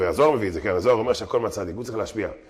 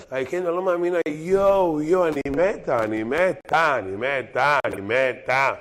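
higher-pitched gushing, stretching the words, easing down; mock gushing woman; 3 semitones higher, slower than usual. Woman recognizing the man who once turned her down, mock gushing. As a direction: gush like a thrilled old flame, hammed up. Woman thrilled to see old flame.

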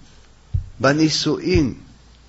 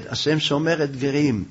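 calm rejoinder; 4 dB quieter than usual. Acted. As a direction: answer her without rising to it. Joseph calmly answers the threat.

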